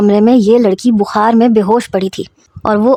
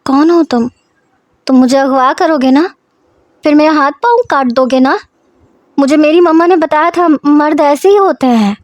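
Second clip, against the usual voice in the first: put-on lightly raised girl's voice, scared and pleading; a scared child repeating what her mother taught her; frightened girl; 4 semitones higher than usual. Girl fearing her father will hurt her, lightly voiced and frightened.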